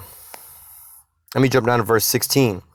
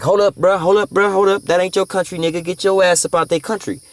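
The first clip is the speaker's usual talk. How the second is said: outraged shout; 9 semitones higher than usual. Retold or imitated. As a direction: yell it like you've caught a bully red-handed. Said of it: "Now everybody's like".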